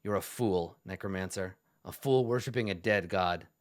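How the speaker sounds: mild, restrained contempt from an undead zealot; a measured warning to a despised necromancer; stern revenant. Acted. Revenant rebukes necromancer, scowling.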